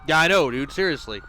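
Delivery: exasperated. Real, not acted. Reacting to his own shot.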